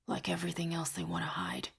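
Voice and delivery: soft resentful mutter. A narrator's reading. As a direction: mutter it half to yourself. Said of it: "Sel mutters".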